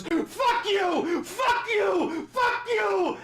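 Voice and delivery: high, loud, frantic mock yell of the president; hammed-up Trump imitation, screeching it out; mocking Trump shouting. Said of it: "and he goes".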